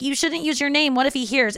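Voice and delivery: mock worried self. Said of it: "me being like".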